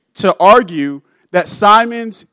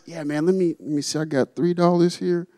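eager Simon; 3 dB quieter than usual. Retold or imitated. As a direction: play Simon fumbling for cash, pitch jumping up on the ask. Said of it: "Simon decides".

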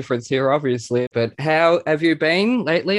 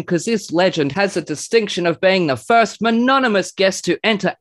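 higher, building grand show intro; hype announcer introduction; 7 semitones higher, 3 dB louder than usual. Acted. Host heralds a guest with gushing wordplay, hyped-up announcer. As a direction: build to a big ringmaster reveal.

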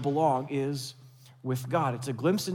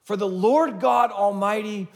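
shouted praise; 3 semitones higher, 4 dB louder than usual. Retold or imitated. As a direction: proclaim it with everything you've got.

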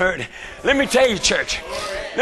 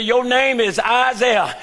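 mama; slower than usual. Retold or imitated. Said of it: "My mama told me".

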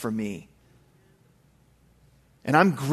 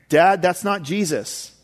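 lightly voiced little son; 4 semitones higher, 4 dB louder than usual. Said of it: "my five-year-old son".

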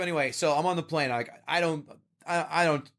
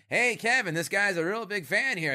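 higher put-on voice of an amused comedian; celebrity comic, higher-voiced, calling to his friend about a fan; imitating Norm Macdonald; 6 semitones higher than usual. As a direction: pitch it up and play the older comic tickled by a fan. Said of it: "He's like".

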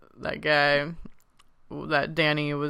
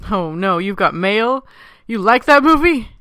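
high, loud disbelief; loudly aghast, pitch climbing on the question; incredulous; 6 semitones higher, 12 dB louder than usual. Real, not acted. Co-host reacts to a huge fan's confession, incredulous. Teasing disbelief at a film choice.

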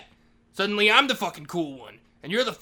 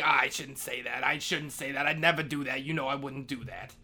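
lower, softer retraction trailing off; sheepish backtrack; 4 semitones lower, 5 dB quieter than usual. Acted. Janitor walking back his own outburst, sheepishly. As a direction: take it back, dropping your voice. Backtracking after going too far.

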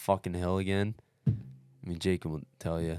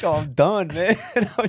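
much higher, louder half-laughing whimper; mock whimper; 11 semitones higher, 9 dB louder than usual. Runner recalling crying in the tent, in a high half-laughing whimper. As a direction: squeak it out like you're about to break.

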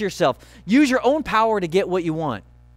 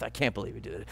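much lower and softer, a bitter mutter; muttering under breath; 9 semitones lower, 12 dB quieter, much faster than usual. Retold or imitated. Husband muttering at wife walking to church. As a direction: grumble it under your breath. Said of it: "muttering under your breath".

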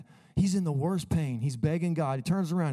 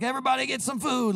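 Jesus voiced; 10 semitones higher, faster than usual. Jesus voiced feeding crowd.

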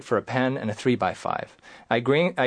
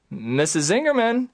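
alarmed cry; 8 semitones higher than usual. Retold or imitated. Patient falls.

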